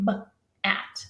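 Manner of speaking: "b-" then "at" with a pause; modeling "b-" ... "at" for the kids; segmented onset and rime. Shown as a demonstration. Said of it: "they say".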